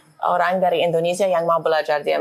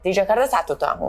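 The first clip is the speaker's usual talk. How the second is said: foreigner speaking Indonesian. Real, not acted. American diplomat speaking Indonesian.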